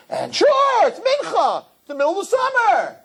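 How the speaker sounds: high, loud mocking whine; mock excuse. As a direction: ridicule the lazy excuse. Mocking summer-shul excuse.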